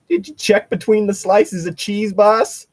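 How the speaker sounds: a nervous backwoods cook answering the boss; hick sandwich maker. Pretend.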